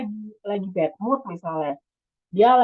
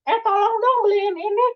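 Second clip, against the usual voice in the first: parent asking; 12 semitones higher, 3 dB louder than usual. Retold or imitated. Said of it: "ibu apa ayah gitu langsung".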